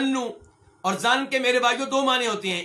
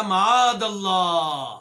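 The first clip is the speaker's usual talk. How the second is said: horrified refusal; 4 semitones lower, much slower than usual. Retold or imitated. Recounting the hadith, voicing a horrified refusal.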